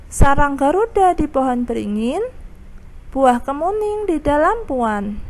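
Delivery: measured, lilting poem reading; pantun recital. Shown as a demonstration. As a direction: recite the verse with a gentle rhythm. Teacher recites the pantun example.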